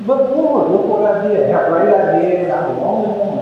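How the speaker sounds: a lightly mocking whine of self-pity; whiny complaint. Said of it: "becomes a whiner".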